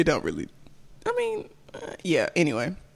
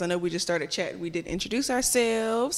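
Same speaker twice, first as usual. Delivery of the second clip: normal talking voice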